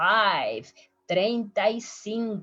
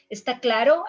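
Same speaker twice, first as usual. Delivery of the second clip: teacher checking; 3 semitones higher, 6 dB louder, faster than usual. Shown as a demonstration. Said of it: "we can ask our students".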